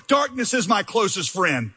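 preacher reading a lament psalm, rising in force; impassioned scripture reading. Acted. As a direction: read the psalm as a cry to God.

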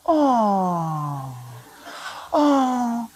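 long drawn-out "aww" sigh; cooing. Retold or imitated. Passengers stopping at a newborn in the aisle, cooing. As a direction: mimic passengers melting over a baby.

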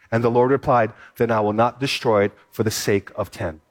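preacher reading Genesis to the congregation, steady and solemn; scripture reading. Acted. Reads Genesis passage aloud.

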